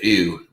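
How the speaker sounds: "ew" as a fronted oo; Baltimore "ooh". Shown as a demonstration. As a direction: slide "ew" from ee toward oo. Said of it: "the way they say the".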